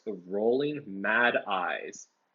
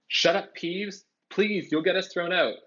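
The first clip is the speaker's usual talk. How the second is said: urgent hushed plea; 8 semitones higher than usual. A narrator's reading. Harry pleads with Peeves.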